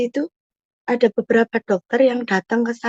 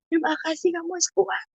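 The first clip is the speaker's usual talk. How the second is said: put-on softer, higher voice, retelling words to the child; tender encouragement; 6 semitones higher, 5 dB quieter than usual. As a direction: gently encourage the child, pitched up and quiet. Retold encouragement to child after surgery. (dorongan lembut untuk anak, suara pelan dan meninggi)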